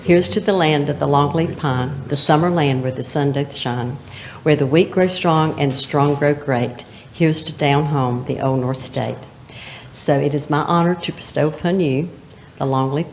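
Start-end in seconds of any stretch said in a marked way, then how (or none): 0.0-9.2 recited toast. Acted. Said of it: "say it with me".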